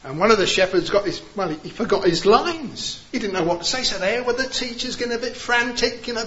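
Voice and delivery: ordinary talk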